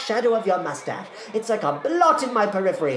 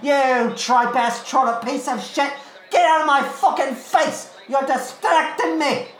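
furious cockney heckling; 10 semitones higher than usual. Acted. Eliza screams at horse and jockey mid-race, furious cockney. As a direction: bellow abuse like a raging cockney punter.

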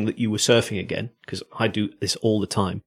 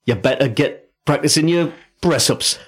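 mock Geordie accent, louder and higher; 5 semitones higher, 3 dB louder than usual. Teasing a podcast co-host about Geordie Smith, mock Geordie accent. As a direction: put on a hammed-up Newcastle Geordie twang. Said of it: "I thought he was from Newcastle".

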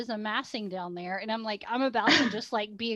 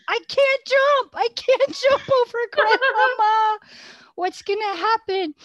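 retold panic; 9 semitones higher, 5 dB louder than usual. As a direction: replay your own frantic terror for laughs. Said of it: "And I'm like".

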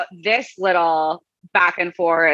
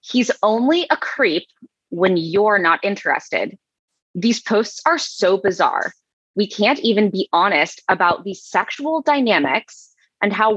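dramatic reading of the troll. Acted. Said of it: "And I should play him".

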